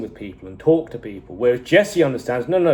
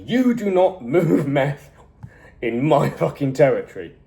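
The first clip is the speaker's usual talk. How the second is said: menacing threat; 3 semitones higher than usual. Retold or imitated. Tuco beating Jesse, threatening.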